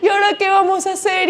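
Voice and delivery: hint of a crying boy; mildly whiny crying boy. A narrator's reading. Lost boy panicking at nightfall, mild mock whimper. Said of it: "Juancito se puso a llorar".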